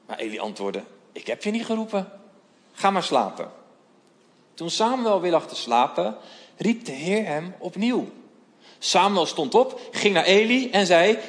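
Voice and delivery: measured storytelling read of the Bible passage, voices lightly acted; scripture reading. Voorlezen van het bijbelverhaal. (bijbelverhaal voorlezen met lichte stemmetjes)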